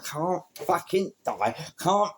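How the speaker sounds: retold rage; mock furious growl. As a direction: bite out each word. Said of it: "So I'm like".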